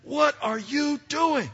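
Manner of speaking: high, gasping mock shock; shocked disbelief. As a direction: act appalled at a child's misdeed. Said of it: "He's never going".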